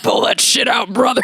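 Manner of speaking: lightly put-on voice-memo come-on; a hint of a hotline voice; sex voice. Quoting her own voice memo in a mild sex voice. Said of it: "sex hotline with that voice".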